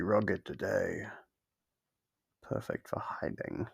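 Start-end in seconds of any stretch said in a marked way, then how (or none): 2.4-3.7 whispered low and soft, a sly hint; teasing whisper. Acted. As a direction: breathe it like a secret. Captor teases about hiding game.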